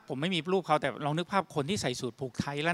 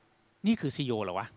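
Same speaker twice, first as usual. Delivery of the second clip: slow, lower-pitched mock bewilderment; baffled disbelief; 4 semitones lower, 4 dB quieter, slower than usual. Staff seeing their CEO rap, slowly baffled. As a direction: imitate a puzzled onlooker, drawing it out. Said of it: "คนงงๆเลยว่า".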